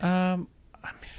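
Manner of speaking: hushed whisper. Real, not acted. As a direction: drop to a breathy whisper. Hesitant aside about Meryl Streep.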